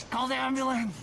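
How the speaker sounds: hammed-up cry for help; mock panicked yell. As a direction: yell for an ambulance, over the top. Dramatic mock death scene.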